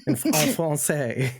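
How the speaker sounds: hammed-up French accent; mock French. Host boasts of being fluent, mock French accent. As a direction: show off shaky French with a put-on accent. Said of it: "fluent in French".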